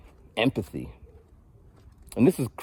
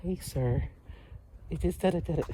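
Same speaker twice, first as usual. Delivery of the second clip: mock official brush-off; 7 semitones higher, 10 dB quieter than usual. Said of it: "And they're just".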